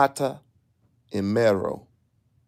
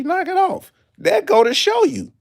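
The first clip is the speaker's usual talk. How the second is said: excited; 11 semitones higher, 4 dB louder than usual. Real, not acted. Excited rant peak.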